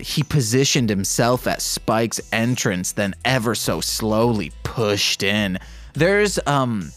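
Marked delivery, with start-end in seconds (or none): 0.0-5.6 steady read-aloud narration; calm fanfic reading; story narration. Acted. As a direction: read the story evenly, like an audiobook.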